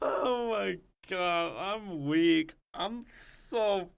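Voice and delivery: slow words through hard laughter; helpless laughing fit. Real, not acted.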